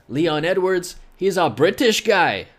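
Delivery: clumsy mock British announcement; bad British accent. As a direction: put on a horrible UK accent. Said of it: "my United Kingdom accents are so horrible".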